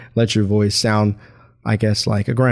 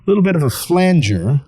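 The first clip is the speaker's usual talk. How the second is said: flanger effect. Shown as a demonstration. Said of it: "altering the tone of my voice".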